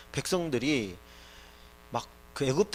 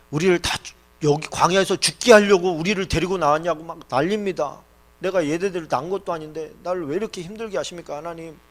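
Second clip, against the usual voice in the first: louder, pressing complaint, easing at the end; protesting Moses; 2 semitones higher, 6 dB louder than usual. Acted. Moses protests to God about the people, exasperated. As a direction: plead your case in exasperation.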